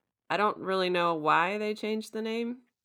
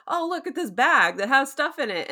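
high, louder mock eagerness; imitating awkward Steven; 7 semitones higher, 5 dB louder than usual. Steven showing Layla the bag, hammed-up cluelessness. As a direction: sing out a clueless discovery, pitched up.

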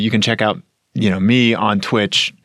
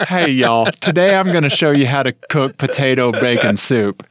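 Southern YouTuber intro. Retold or imitated. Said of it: "Any YouTube video that starts off with that".

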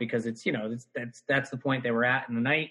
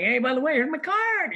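high, laughing cheeky self-promotion; laughing mock pitch; 12 semitones higher than usual. Comedian imagines handing Brad his card, laughing. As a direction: pitch yourself while cracking up.

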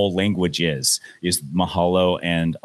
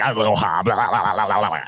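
enthusiastic aloha. Retold or imitated. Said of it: "now I just embrace it and I'm like".

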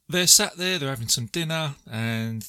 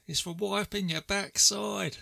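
high, drawn-out mock call from a window; playful imitation of shouting down; retold shout; 8 semitones higher, 3 dB quieter, slower than usual. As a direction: call it out slowly, pitched up, without real volume. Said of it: "he shouts to Sue".

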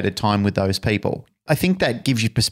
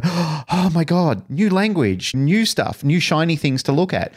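higher-pitched, wide-eyed gushing; mock awe; 7 semitones higher than usual. Imitating people duped by a new trainer's language, mock awe. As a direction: gush like a dazzled follower.

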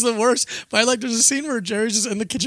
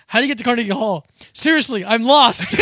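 mock lost tourist; 2 semitones higher, 5 dB louder than usual. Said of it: "And I wanted to be like".

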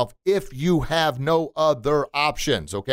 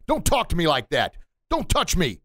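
firm, raised-pitch warning; confident stand-up; 5 semitones higher than usual. Acted. Child standing up to a rude kid, confident firm command. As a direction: stand your ground, each command distinct. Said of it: "stand up for themselves in a confident manner".

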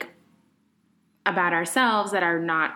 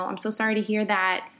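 gentle concern. Shown as a demonstration. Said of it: "it's so easy just to say".

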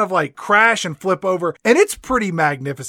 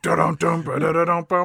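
hummed soundtrack riff. Shown as a demonstration. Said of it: "You get this like".

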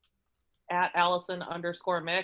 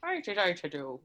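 put-on failed Scottish accent, drifting Irish; botched Scottish accent that sounds Irish; Irish-sounding Scottish attempt; 2 semitones lower, faster than usual. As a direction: try Scottish and land on a light Irish accent. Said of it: "No, see, that's Irish".

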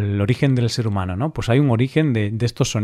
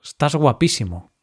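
flattering dog; slower than usual. Pretend. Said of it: "cada vez que te ven dicen".

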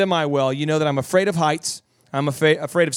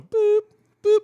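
very high, steady boop; high electronic boop, held level; imitated machine beep; 3 dB louder than usual. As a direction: beep like a rising lift. Imitating lift's beeps going up.

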